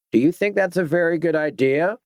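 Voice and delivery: menacing gang leader. Acted. Captain menacing captive girl.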